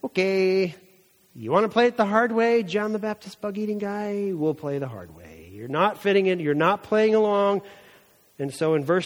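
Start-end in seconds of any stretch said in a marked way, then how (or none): 0.0-7.6 mock exasperated sarcasm, pitched up on the challenge; hammed-up exasperation of the religious leaders; exasperated priests. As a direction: needle him like fed-up officials. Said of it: "these guys are exasperated".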